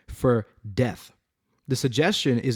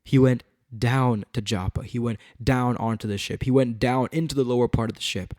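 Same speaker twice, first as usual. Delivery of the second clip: "down" set apart and leaned on each time; repeated emphasis on "down"; stress on DOWN. Shown as a demonstration. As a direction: land firmly on every "down". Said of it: "emphasized certain words".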